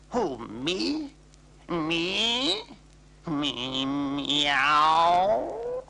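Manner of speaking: high, startled cat voice; surprised cat. Acted. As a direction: act amazed you were asked.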